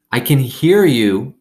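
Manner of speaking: put-on high, slow yell at the boys; loud, drawn-out call; hollered. A narrator's reading. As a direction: shout it back at them. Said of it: "I hollered back at them".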